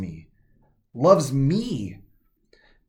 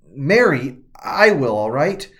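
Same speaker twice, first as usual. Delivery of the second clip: louder, hot-tempered answer; Mary answering old Mary in mounting anger, louder; angry retort; 6 dB louder, slower than usual. Retold or imitated. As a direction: snap back that she'll do it herself. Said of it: "I was so mad".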